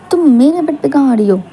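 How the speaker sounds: startled objection. Acted. Husband stops wife coming to bed.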